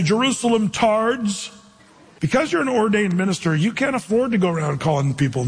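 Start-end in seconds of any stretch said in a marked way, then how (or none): 0.0-1.5 mock insult. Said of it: "He didn't say".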